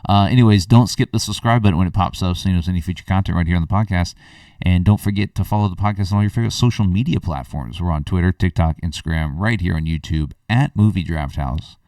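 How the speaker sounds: brisk channel plug; podcast sign-off. Acted. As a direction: rattle off the closing subscribe plug.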